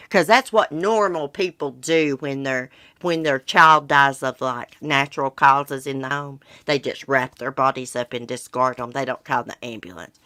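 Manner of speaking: mock-reasonable, as if this were perfectly normal; sarcastic. Real, not acted. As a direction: say it with pointed sarcasm. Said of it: "I'm being sarcastic".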